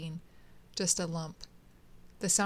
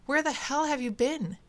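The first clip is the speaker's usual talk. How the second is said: stern demand, pitched high; higher, sterner challenge; more stern; 7 semitones higher, 4 dB louder than usual. A narrator's reading. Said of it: "he said more sternly".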